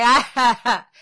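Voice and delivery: loud mock villain laugh; hammed-up grandfatherly cackle; cackling grandfather. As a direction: laugh like a scheming elder. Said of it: "Grandfather is like".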